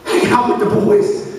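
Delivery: put-on boy stunned to be invited, high and hushed; incredulous echo. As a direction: repeat it like it's too good to be true. Echoes invite in disbelief.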